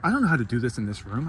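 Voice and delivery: quick, anxious, rushing the words; stressed out. Retold or imitated. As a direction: retell the panic, a bit rushed. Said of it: "And I'm getting stressed out".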